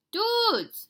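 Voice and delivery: high, loud shout of joy. A narrator's reading. Kitty boy shouting to his friends, high and loud. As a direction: yell it out to your pals. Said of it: "shouted Scapito".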